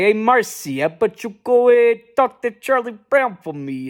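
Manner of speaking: lightly voiced bossy girl asking a favour; a hint of Peppermint Patty, half-hearted. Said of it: "I can't do Peppermint Patty".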